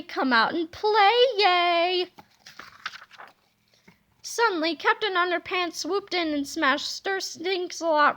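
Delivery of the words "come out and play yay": sing-song playground taunt; mocking taunt. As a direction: tease like a bully on the playground. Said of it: "he called mockingly".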